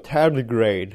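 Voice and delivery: English word in an American accent. Shown as a demonstration. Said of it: "Amerikan aksanıyla".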